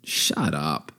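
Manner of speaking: low, soft, fond brush-off; quiet affectionate retort; endearing. Retold or imitated. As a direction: say it gently, voice dropped. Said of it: "I said it kind of, like, endearingly".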